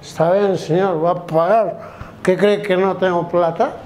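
put-on lightly slurred drunk reply; drunk passenger. Drunk teenager answers bus driver about fare, lightly acted tipsy voice. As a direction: answer back like a tipsy rider. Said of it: "Oiga, borracho".

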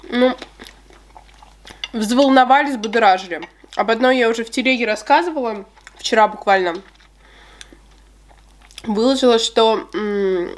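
chewing while talking; speaking between bites; mouth full of cake. Real, not acted. Seen 3: Bite taken at -4.0; lips pursed, chewing motions while talking after.

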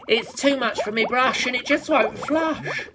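high, exasperated complaint; upset outburst. A narrator's reading. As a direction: wail it in comic dismay. Upset character's line voiced.

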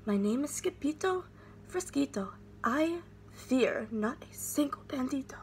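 trembling whisper of bravery; small scared whisper; very soft voice. A narrator's reading. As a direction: whisper the boast, barely voiced. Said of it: "muy, muy soft voice he said".

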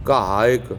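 ਘਾਇਕ starting with a clear gh; correct pronunciation. Shown as a demonstration. Teacher modelling ਘਾਇਕ for students, clear initial gh. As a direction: open ਘਾਇਕ with a voiced gh. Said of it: "ਘਾਇਕ ਕਰਨਾ".

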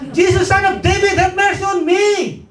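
high, loud pleading cry for mercy; desperate shout. Acted. Blind beggar cries out to Jesus for mercy, high loud plea. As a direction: call out over the crowd, begging. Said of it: "Kaya siya sumisigaw".

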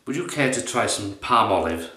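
a first, off-target try at a posh accent; posh accent attempt that misses, about level with his own voice; wrong accent. Shown as a demonstration. Offering soap to someone in posh London, wrong posh accent. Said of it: "No, no, wrong accent".

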